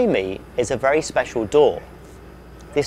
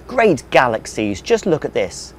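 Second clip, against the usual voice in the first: cheerful; 3 dB louder than usual. Acted. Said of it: "a cheerful alien cried".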